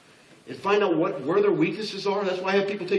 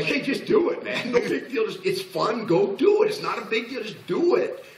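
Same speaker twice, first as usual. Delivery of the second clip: breezy hyped sanguine; 7 semitones higher than usual. Retold or imitated. A carefree boss pumping up his team, high and laughing. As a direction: toss it off like it's nothing, with a laugh. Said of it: "To me, it's like".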